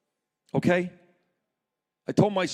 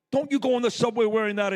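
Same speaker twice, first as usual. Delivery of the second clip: wife's warning; 5 semitones higher, faster than usual. Retold or imitated. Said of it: "My wife was furious".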